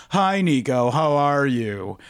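lightly mimicked greeting, slowing on the question; a light take on a friend's drawn-out hello; slow, lightly voiced New York friend; imitating Danny Fields. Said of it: "It's a pretty good impression of him".

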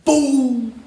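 high, loud, long "boom" falling away; drawn-out boom. Acted. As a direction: let a booming sound effect ring out. Celebrating the remembered shot.

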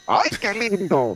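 high, slow, delighted "ay"; flattered gushing reaction. Shown as a demonstration. Host demonstrating the flattered reply, delighted and slow. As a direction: swoon over the compliment. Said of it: "para que la gente entienda".

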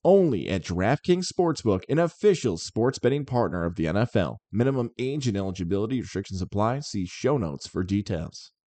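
measured sportsbook ad read. Acted. Host reading the DraftKings sponsor spot to listeners, ad read.

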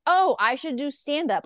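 mock self-assured, pushing the opening; arrogant. New performer after a first success, mock arrogant. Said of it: "like, so arrogant".

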